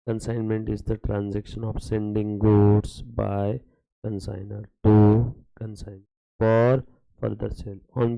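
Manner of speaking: very slow, word by word, for notes; slow dictation. Shown as a demonstration. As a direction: dictate the definition so students can write it down. (धीमे-धीमे लिखवाते हुए)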